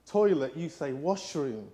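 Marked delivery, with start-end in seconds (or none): 0.1-0.6 TOILET said the British way, TOY-let; British toilet, clear and loud. Shown as a demonstration. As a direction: say toilet crisply, like a Brit. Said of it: "in the U K we say".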